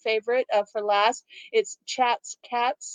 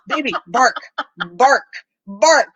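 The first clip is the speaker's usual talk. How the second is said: coaxing the dog; 11 dB louder, slower than usual. Retold or imitated. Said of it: "And I keep going".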